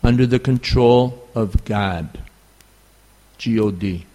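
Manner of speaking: God said in a thick New York accent; under the control of God with a strong New York accent. Real, not acted. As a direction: let the New York vowel show in God. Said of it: "forgive my New York accent".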